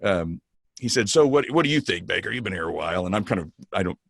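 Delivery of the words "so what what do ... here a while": hint of a gruff Chicago boss; lightly voiced tough Chicago boss; Jack Stack's Chicago voice. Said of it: "I'm emulating his, you know, tough Chicago voice there".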